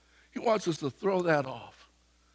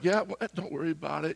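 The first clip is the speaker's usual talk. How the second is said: softer, unhurried brush-off; calm reassurance; 6 dB quieter than usual. Retold or imitated. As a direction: wave it away gently, lightly imitated. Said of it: "But I was so calm".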